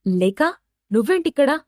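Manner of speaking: mildly surprised, voice lifting on the question; acted surprise at an unexpected meeting. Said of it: "ఆశ్చర్యంగా".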